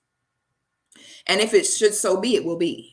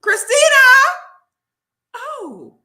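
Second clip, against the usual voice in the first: higher and louder name calls, then a hushed slow reply; movie line impression; 10 dB louder than usual. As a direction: call her name louder each time, then drop it. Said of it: "guess what movie is that".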